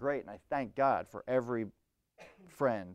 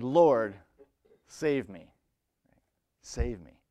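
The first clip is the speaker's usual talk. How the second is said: firm commanding call for help; 6 dB louder, slower than usual. Acted. Peter in the storm, commanding: save me. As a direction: order the Lord to save him. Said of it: "he said it in a commanding way".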